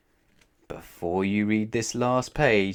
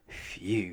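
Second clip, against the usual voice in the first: sigh; 3 semitones lower, 7 dB quieter than usual. A narrator's reading. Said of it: "he sighed".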